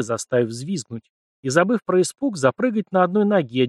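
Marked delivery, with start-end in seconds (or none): none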